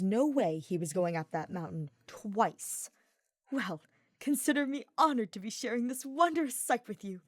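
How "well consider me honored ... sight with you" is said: bright, higher, eager voice; cheering. A narrator's reading. Ferdinand cheering his companion up the path, bright and eager. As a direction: cheer him on up the trail. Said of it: "Ferdinand cheered".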